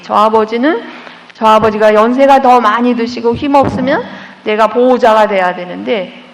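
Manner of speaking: ordinary talk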